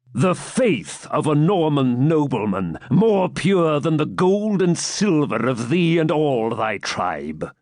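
slow, scornful noble; scornful knight. Acted. Baron scorning the captive, contempt. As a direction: sneer the insult.

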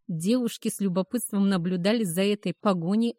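ordinary delivery, nothing marked

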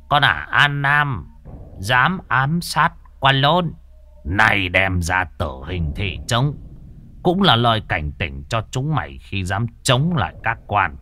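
lightly voiced collaborator announcing the sentence; a hint of a proclaiming interpreter. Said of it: "thằng Việt gian bước lên phiên dịch".

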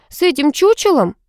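mildly shouted disbelief; indignant cry. A narrator's reading. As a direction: cry it out, affronted. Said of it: "закричала я".

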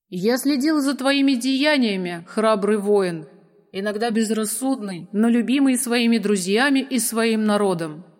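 lightly voiced ancient dragon; a hint of a wise dragon. Dragon speaks.

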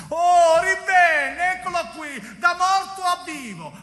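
high, thrilled exclamation; excited amazement. Acted. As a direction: marvel that he's back from the dead. Marvels at someone reviving.

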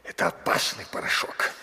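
breathy frightened whisper of warning; fearful whisper. Acted. Vizier warns his master about the powder, fearful whisper. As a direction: hush it out like a dangerous secret.

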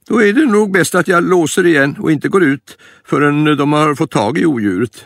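high, worried granny voice; frightened grandma. Acted. Grandma fearing the escaped lion, high worried voice.

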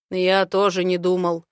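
a hint of a confident dragon man; the speaker's voice. The speaker's held voice. (уверенный мужской голос)

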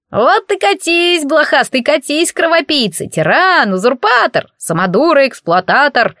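high, squeaky, gloating name-calling; gleeful squeaky jeer. Acted. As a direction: jump around hurling insults with glee. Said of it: "радостно прыгал по столу Колобок". (колобок радостно дразнит оборотня, высоко)

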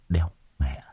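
hushed curse on a sigh. A narrator's reading. Weary host cursing as the guests feast, sighing. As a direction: let the swear out low, under your breath. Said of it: "Ông Thường thì thở dài sườn sượt".

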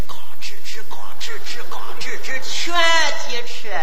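hot Shandong-style shouting; shouting match. Acted. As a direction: bellow it like arguing. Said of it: "这种火爆热烈的语气".

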